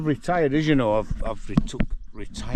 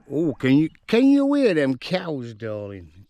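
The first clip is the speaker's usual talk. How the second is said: pet talk; 4 semitones higher, 7 dB louder than usual. Real, not acted. Cooing at pet donkey.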